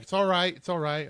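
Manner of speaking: put-on half-hearted New Zealand accent; a hint of New Zealand accent, lightly done; attempted New Zealand accent. Guide calming the boat group, attempted New Zealand accent. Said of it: "I can't do a, a New Zealand accent".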